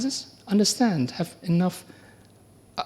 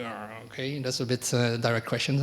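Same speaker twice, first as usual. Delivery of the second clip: much softer, lower murmured reaction; taken aback; 5 semitones lower, 6 dB quieter than usual. Retold or imitated. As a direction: mutter to yourself, caught off guard. Taken aback by teacher's question.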